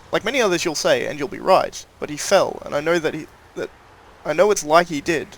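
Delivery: put-on a light rustic rural accent, reading a notice aloud; old-world rural accent, lightly voiced; reading a villager's plea in a mild rural accent. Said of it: "Sorry for that change of accent".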